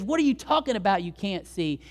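high, incredulous challenge; retold exasperation. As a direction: act out a baffled, angry trainer. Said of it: "he's so mad at the jockey".

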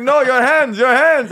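high, loud retold shout; urgent correcting. Clerk to customer about the sponge, urgent correcting. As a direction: imitate an exasperated clerk getting a point across.

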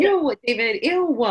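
high, loud disgusted ew; Alexis impression. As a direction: echo the spoiled sister's whine. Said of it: "do impersonations of them".

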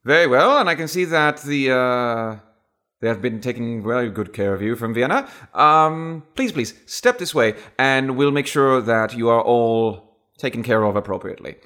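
put-on upper-class British host; high-class British accent. British host inviting the agents inside, high-class British accent. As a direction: usher guests along in Received Pronunciation. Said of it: "high-class British accent".

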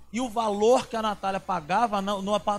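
usual speaking voice

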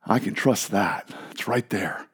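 low, slow, fading to a whisper; hushed trust. Acted. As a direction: murmur it softly, reassured. Voicing a sailor's hushed trust.

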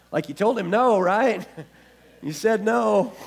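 high, loud, laughing plea; mock nervous protest. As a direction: plead in comic disbelief through a laugh. Imagined nervous reply to Jesus' warning.

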